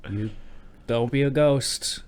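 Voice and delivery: halting mock reassurance; gently coaxing, with awkward pauses; mildly worried dad. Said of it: "sounds like a dad who's a little worried".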